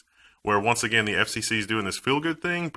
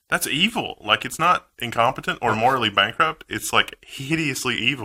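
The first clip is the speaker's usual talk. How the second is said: surprised; 3 semitones higher than usual. Real, not acted. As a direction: sound genuinely stunned. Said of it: "You say that with such surprise in your voice".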